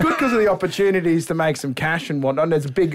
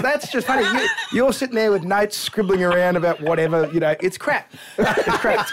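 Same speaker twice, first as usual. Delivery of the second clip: laughing dad; 3 semitones higher than usual. Retold or imitated. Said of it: "He goes".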